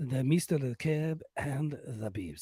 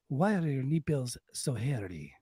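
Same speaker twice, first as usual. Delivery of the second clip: suave mock Spanish accent; Banderas. Host greeting his leading lady, mock Spanish accent. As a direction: play a Spanish romantic lead, hammed-up. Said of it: "Mister Banderas".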